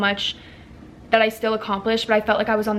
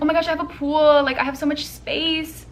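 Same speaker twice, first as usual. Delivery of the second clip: excited; 6 semitones higher than usual. Retold or imitated. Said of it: "I was like".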